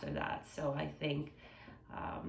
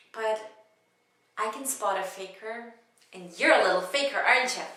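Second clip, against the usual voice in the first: mildly played teasing accuser, building louder; comedic monologue; 4 semitones higher, 6 dB louder than usual. Passenger catching a seatmate faking sleep, lightly acted teasing. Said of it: "it was a comedic monologue".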